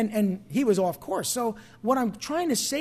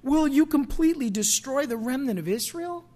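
pleading cry; 5 semitones higher than usual. Retold or imitated. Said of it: "cries out in a loud voice".

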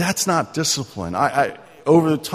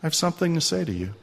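very nicely; 4 dB quieter, faster than usual. Retold or imitated. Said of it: "very nicely".

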